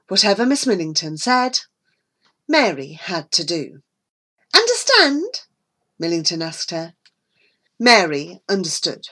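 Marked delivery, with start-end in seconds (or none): 4.5-5.5 stern. Acted. Millington lays down the rules.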